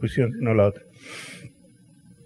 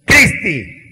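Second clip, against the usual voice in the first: a sharp, loud, higher call of her name; stern call; 7 semitones higher, 6 dB louder than usual. Retold or imitated. Father warning his daughter at the cliff edge: sharp loud call. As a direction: snap the daughter's name to stop her cold. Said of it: "di la vuelta y le dije".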